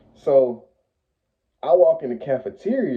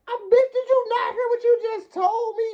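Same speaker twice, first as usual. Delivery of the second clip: exasperated disbelief. Real, not acted.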